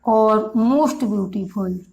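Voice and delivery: very slow, drawn out, word by word; slow dictation. Shown as a demonstration. Teacher slowly dictating to the class. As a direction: spell it out slowly for students to copy. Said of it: "teacher dictating forms slowly".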